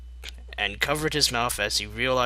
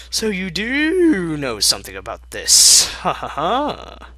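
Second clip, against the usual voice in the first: high gleeful accusation; gotcha laugh; 8 semitones higher, 6 dB louder than usual. Acted. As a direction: catch him out, then cackle. Pinkie catching him out.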